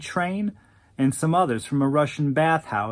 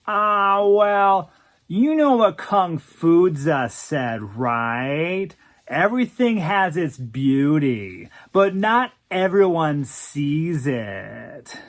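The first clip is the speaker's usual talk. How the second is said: louder moan then slow drawl; 3 dB louder, slower than usual. Acted. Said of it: "He moaned".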